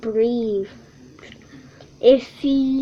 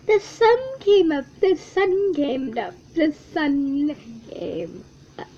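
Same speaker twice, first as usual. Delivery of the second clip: little squirrel delighting in the sunrise; cheerful repeated chant; happy squirrel refrain; 3 dB quieter than usual. Acted. Squirrel sings his happy refrain.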